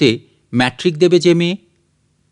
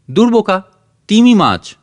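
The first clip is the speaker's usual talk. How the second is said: teasing retort; 6 semitones higher, 4 dB louder than usual. Acted. Sister mocks brother's answer.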